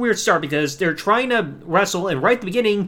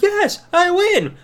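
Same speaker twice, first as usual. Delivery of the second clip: high, slow, drawn-out victory cry; mock celebration; 11 semitones higher, 3 dB louder, much slower than usual. Daniel celebrating after the pin, high and slow. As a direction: stretch it out like a kid who just won. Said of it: "He's like".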